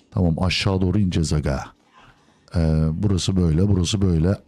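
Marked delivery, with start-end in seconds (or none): none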